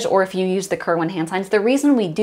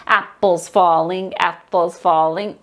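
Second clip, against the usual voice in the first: rhythmic speaking; 3 semitones lower than usual. Shown as a demonstration. Teacher offers first grade the text option, chanting. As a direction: chant it evenly in time. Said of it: "speak on text".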